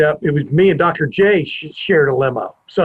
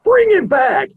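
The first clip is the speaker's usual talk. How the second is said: high mock crowd chant-yell; retold crowd scream; slower than usual. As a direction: imitate a crowd yelling, pitch way up. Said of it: "the whole crowd starts screaming".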